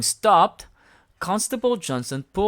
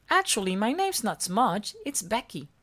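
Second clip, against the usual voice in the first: Smudge voice; 6 semitones higher than usual. A narrator's reading. Smudge giving the ball back, high and shy. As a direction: apologise shyly. Becky reveals name.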